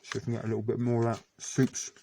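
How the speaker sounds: talking through a mouthful; words round a bite of cracker; mouth full. Real, not acted. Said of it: "very hard to speak with your mouthful".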